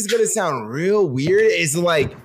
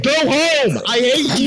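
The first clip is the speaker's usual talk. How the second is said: retold angry dismissal; 6 semitones higher, slower than usual. Retells rejecting someone in a bar.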